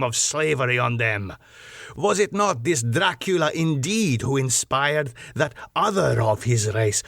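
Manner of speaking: put-on proud old nobleman holding forth on his bloodline; the Count boasting. Count boasting of his race to his guest, proud. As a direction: let ancestral pride swell through each line.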